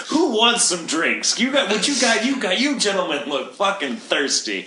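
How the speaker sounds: high, cheery overdone Irish voice; over-the-top Irish accent. Retold or imitated. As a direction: play a hammy Irish barfly. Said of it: "I was like".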